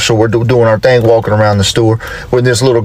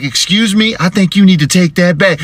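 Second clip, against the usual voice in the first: higher-pitched offended retort; mock indignation, pitched up; pissed-off mother; 6 semitones higher than usual. Offended mother to an elderly lady, imitated high indignation. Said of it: "This woman got so pissed".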